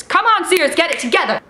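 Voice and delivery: playful scolding shout at a store; mock scolding. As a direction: call out Sears like a let-down friend.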